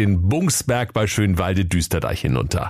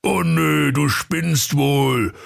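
higher, whiny gamer grumble; sulky Ruprecht; 7 semitones higher than usual. Acted. Ruprecht sulking at Santa over his game, whiny. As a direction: whine about the lost save. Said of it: "Knecht Ruprecht maulte".

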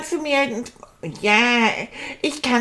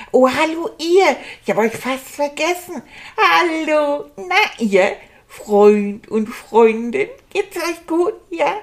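bright greeting; 5 semitones higher, slower than usual. Acted. Child greets the audience brightly.

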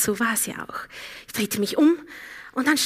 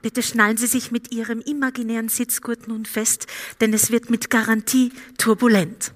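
flight attendant. Acted. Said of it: "so in etwa hat es geklungen vor dreiundzwanzig Jahren, als ich noch Flugbegleiterin".

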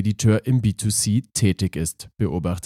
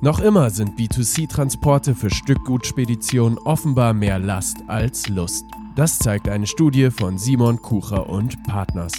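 talking through a head cold; blocked nose, congested voice; stuffy nose. Real, not acted. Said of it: "mit verschnupfter Stimme".

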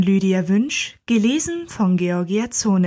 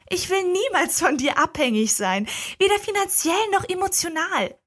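lightly voiced young woman, higher, firm; a hint of Lila setting her terms, higher; Lila's voice; 10 semitones higher than usual. Lila's voice, read aloud.

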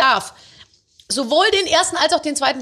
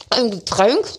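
ordinary talk

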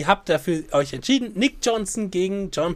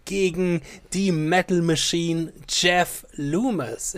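announcer; slower than usual. Acted. Host announcing matchup slowly.

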